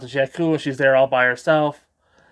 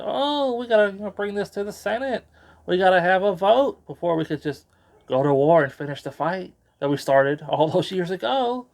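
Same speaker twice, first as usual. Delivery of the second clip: prim senator; 4 semitones higher than usual. Retold or imitated. Mon Mothma voiced in retelling.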